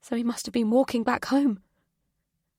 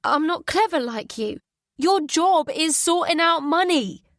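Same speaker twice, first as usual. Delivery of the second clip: bitter retort; 7 semitones higher, 5 dB louder than usual. Acted.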